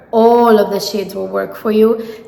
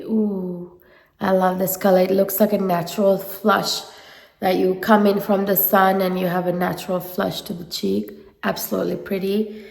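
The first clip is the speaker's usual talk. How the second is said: stuffy nose from a head cold; nasal voice; 3 dB quieter than usual. Real, not acted. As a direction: talk through a blocked nose. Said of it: "I apologize for my nasally voice".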